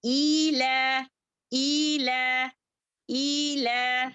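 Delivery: slow drawn-out ईला recited for the class; teacher chanting ईला for students; Quran recitation. Shown as a demonstration. Teacher models recitation for students, slow chant. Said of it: "कैसे पढ़ेंगे?".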